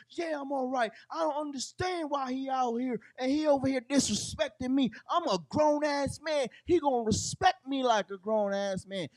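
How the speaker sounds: a lightly voiced offended grown man; country friend. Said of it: "I said".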